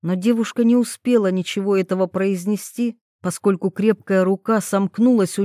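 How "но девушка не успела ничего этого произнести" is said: ordinary delivery, nothing marked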